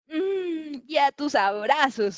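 hum, then draw the words out; contented sigh. Acted. Little leopard reunited with his mama, sighing happily. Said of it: "suspira Leopardito".

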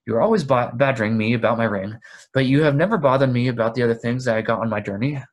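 loud, fast, annoyed accusation; sharp and suspicious. Acted. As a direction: snap at him with suspicion. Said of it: "sharp with suspicion and annoyance".

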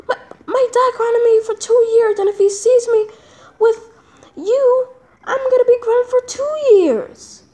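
mock sob, voice pushed up; hammed-up whimpering plea; whiny fake crying. Kid fears being grounded, cry heard.

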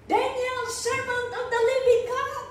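king calling down to Daniel, mildly anguished. Retold or imitated. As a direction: plead with him through the stone. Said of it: "in an anguished voice".

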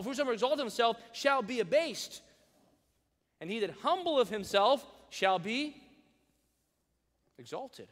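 preaching the correct verse out loud; emphatic correct reading. Shown as a demonstration. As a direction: proclaim the real verse.

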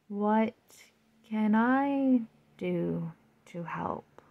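slow, sleepy sloth voice; super slow sleepy sloth. Acted. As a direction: drag each word out drowsily. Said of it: "asked the sloth sleepily".

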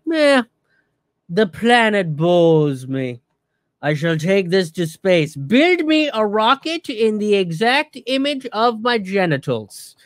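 lightly voiced pompous tycoon, bored and grand; mock bored billionaire. Mocking billionaires who fly to space, lightly pompous and bored.

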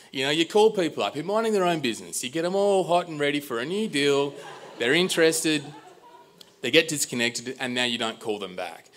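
high-pitched, mounting mock outrage; indignant accusation. Customer telling Sue off for not calling people back, indignant. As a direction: lay out the charges in a high, aggrieved voice. Accusing the company over unreturned calls.

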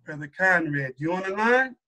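measured, low roll call from the boss; Minister Farrakhan. Retold or imitated. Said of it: "Minister comes on".

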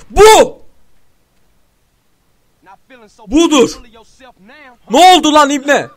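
loud, high cheering; triumphant yells. Real, not acted. Gamer celebrating a kill, triumphant yelling. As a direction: gloat over the kill.

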